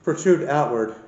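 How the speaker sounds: breathless after climbing stairs; winded, catching your breath. Real, not acted. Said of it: "A little bit out of breath".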